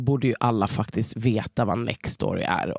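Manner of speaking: upbeat sponsor read. Acted. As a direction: sell the service like a podcast ad. Reads the sponsor message.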